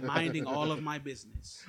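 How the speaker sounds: ALL drawn out, with a laugh in it; slow down and lean on "all"; amused, deliberate weight on "all"; stress on ALL. Real, not acted. Repeats joke, stressing the added word.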